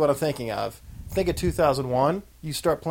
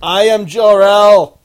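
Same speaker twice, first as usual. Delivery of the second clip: slow, loud, higher commanding voice; booming demon lord; 7 semitones higher, 13 dB louder, much slower than usual. Acted. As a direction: declare it like a grand villain. Quoting Superman movie.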